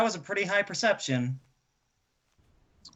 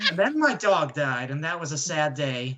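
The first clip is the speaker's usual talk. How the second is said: low, droning life story; mock-tedious, deadpan reminiscence; dull storyteller; 5 semitones lower than usual. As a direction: drone on in a lower voice to stall. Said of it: "his incredibly dull life story".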